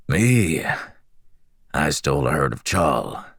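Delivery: lightly raspy, friendly prisoner; a hint of rasp, curious and chatty; raspy slave voice. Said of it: "He had a raspy voice".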